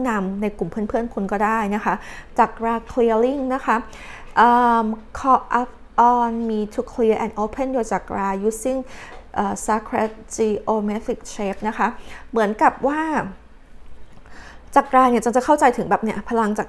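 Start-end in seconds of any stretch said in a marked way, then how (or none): 5.2-11.6 reads the card's English text very slowly and deliberately; measured, drawn-out oracle reading. Acted. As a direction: spell out each word of the card like an oracle. Reading tarot card text aloud.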